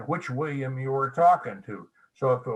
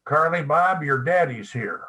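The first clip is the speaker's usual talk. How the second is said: final call out; 3 semitones higher, 5 dB louder than usual. Retold or imitated. Receptionist finally paging the son by his nickname, loud. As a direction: call the nickname across the room.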